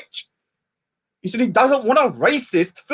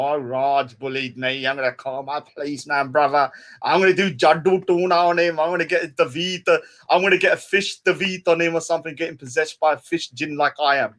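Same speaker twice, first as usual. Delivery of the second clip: mock crybaby whine; 5 semitones lower than usual. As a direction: mimic a crybaby tattling. Mimicking him whining about bullying.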